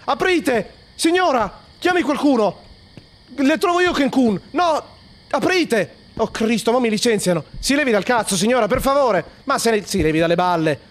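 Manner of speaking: high, loud panicked shouting; panicked yelling. Real, not acted. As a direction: yell in panic at being locked out. Locked out, panicking. (urla in preda al panico, molto acuto e forte)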